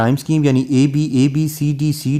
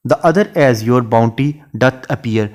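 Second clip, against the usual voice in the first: slow, measured reading of a verse line; poetry recitation; much slower than usual. Shown as a demonstration. Teacher reciting a Shakespeare sonnet line to students, slow and measured. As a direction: read each word of the sonnet out slowly.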